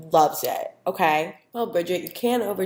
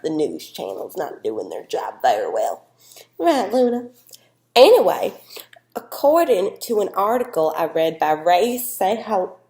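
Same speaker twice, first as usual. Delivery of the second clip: a hint of a chatty Southern host, often loud; lightly voiced Southern guest; 2 semitones higher, 8 dB louder than usual. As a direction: play the bubbly Tennessee expert chatting with her dog. Janine character segment.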